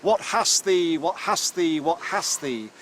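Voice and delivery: mock rustic shout, loud then fading; demo shout. Shown as a demonstration. Professor shows Ruth the harvest call, a loud mock shout. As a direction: call out the old harvest chant, half-demonstrating. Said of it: "we three guys shout".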